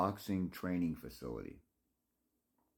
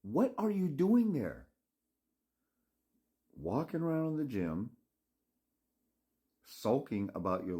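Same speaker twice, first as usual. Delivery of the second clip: exasperated scolding; 6 semitones higher than usual. Acted. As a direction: scold the sulker, pitching higher as it builds. Scolding the imagined sulking boxer.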